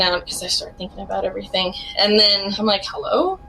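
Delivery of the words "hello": high, worried calling into a dead phone; anxious calls into the phone; anxious hello. Retold or imitated. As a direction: call out nervously, pitch rising.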